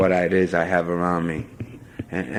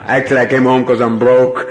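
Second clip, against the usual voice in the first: laughing; 3 semitones higher, 8 dB louder than usual. Real, not acted. Confession between laughs.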